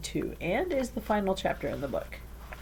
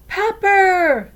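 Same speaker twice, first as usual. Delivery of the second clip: high, loud joyful call; excited cry; 14 semitones higher, 10 dB louder than usual. A narrator's reading. Nori greeting her friend, an excited high call. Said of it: "Nori cried".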